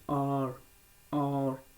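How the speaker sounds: आर with the tongue touching once, no vibration; untrilled r. Shown as a demonstration. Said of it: "vibrate नहीं करने देना है". (बिना कंपन वाला आर)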